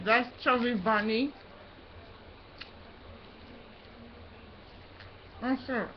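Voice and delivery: mushy words through a stuffed mouth; cheeks stuffed full. Real, not acted. Five marshmallows in mouth.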